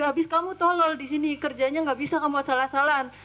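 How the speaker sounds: imitating a scolding employer; mild mock berating; retold abusive scolding. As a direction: retell the boss's contemptuous tirade. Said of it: "maki-maki saya dengan perkataan kasar".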